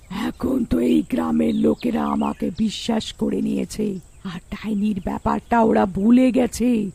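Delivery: witch plotting to herself, slowing at the end; scheming witch. Acted. Witch planning her hunt, scheming villain voice. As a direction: draw out the last words with villainous relish.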